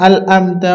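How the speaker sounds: "আল আমতা" with an l in the first syllable; mistaken l sound. Retold or imitated. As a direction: say "আল আমতা" as al-amta. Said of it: "অনেকজন পড়ি আল আমতা".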